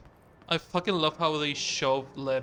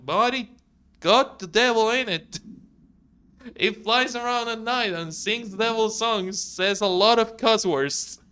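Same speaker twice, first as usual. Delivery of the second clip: higher, lilting attempt at a Southern accent; 3 semitones higher than usual. Letter writer pleading with the governor about a devil fish, Southern accent. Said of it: "I tried to do a southern accent".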